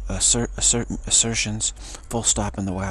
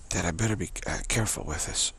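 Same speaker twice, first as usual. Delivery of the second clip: fading voice; 4 dB quieter, faster than usual. Real, not acted. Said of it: "voices disappearing".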